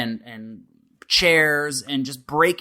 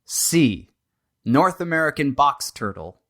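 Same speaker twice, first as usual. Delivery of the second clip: measured game show host listing choices; deliberate multiple-choice read-out; quiz options read. Acted. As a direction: announce each choice separately, with a pause between.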